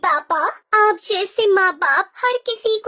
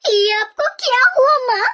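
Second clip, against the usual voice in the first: calling for help; 5 semitones higher than usual. Acted. Daughter on an empty road calling for help, desperate. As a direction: shout for anyone to come help.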